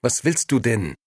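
nervous. A narrator's reading. Nino asks Momo what she wants, mildly nervous. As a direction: ask a little nervously. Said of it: "erkundigte Nino sich nervös".

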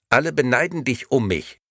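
sweet, empty doll voice; talking doll. Acted. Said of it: "fuhr Bibi-Girl fort".

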